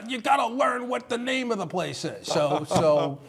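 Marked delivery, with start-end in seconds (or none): 0.1-2.3 high-pitched mock outburst; flipping out. Anchor imitating truck operator who flipped, high mock scolding. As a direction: imitate an exasperated colleague yelling a correction. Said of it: "And boy, he flipped".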